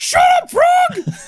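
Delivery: squealing, high-pitched puppet voice. Answering the frog as a pig puppet: Miss Piggy voice. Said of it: "Kermit and Miss Piggy impersonator".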